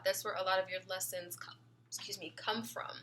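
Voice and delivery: talking through hiccups; suppressing hiccups. Real, not acted. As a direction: hiccup breaks the words. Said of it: "I just got the hiccups".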